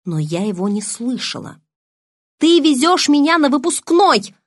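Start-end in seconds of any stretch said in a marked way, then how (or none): 2.4-4.4 high, loud furious yell. A narrator's reading. Bella yells at Edward about the prom, loud. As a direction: shout it out, outraged. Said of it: "заорала я".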